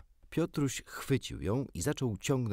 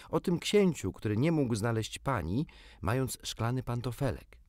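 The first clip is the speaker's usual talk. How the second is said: put-on eager boyish Peter; 4 semitones higher than usual. Peter recalls Cinderella.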